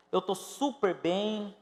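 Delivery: slow, teasing insistence; drawn-out mock reassurance. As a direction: stretch it slowly, mocking. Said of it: "Pastor, mas eu tô super bem".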